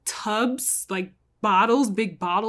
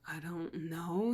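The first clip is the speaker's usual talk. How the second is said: soft, hushed whisper; lower, breathy hush; 4 semitones lower, 14 dB quieter than usual. Retold or imitated. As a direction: whisper it so nobody hears. Dante answering agent under watch.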